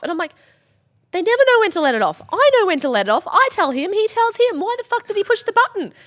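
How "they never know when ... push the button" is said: high, loud furious scolding; angry rant. Retold or imitated. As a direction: tear into them. Angry rant at pyro crew.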